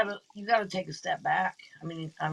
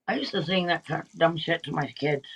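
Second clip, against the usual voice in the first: while brushing teeth; 2 semitones lower than usual. Real, not acted. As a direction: mouth full of toothpaste. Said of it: "I'm brushing my teeth".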